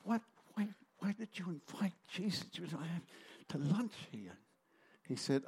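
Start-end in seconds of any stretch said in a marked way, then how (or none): 0.0-4.4 scolding wife. Retold or imitated. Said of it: "She says to him".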